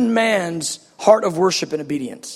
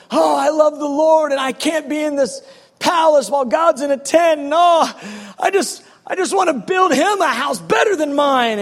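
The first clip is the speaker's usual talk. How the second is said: higher, excited pleading king; eager David; 5 semitones higher than usual. Retold or imitated. David telling God he wants to build a house, eager. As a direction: gush like a devoted king wanting to give back. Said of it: "David goes".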